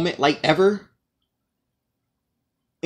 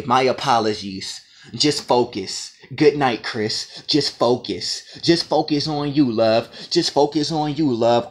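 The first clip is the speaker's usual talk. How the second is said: lower, dragged-out mocking read of her text; mock sarcastic; 5 semitones lower, slower than usual. Quoting his friend's goodnight text, mocking sarcastic. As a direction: mimic her sarcastic sign-off. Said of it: "you had to be sarcastic".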